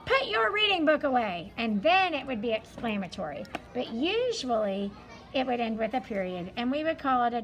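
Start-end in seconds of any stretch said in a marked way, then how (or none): 0.1-1.5 a touch louder, stern teacher command; playing the cross teacher ordering the class; mock angry teacher. Teacher imitating an angry teacher telling kids to put books away, mildly stern. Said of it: "if your teacher is really angry, she might say".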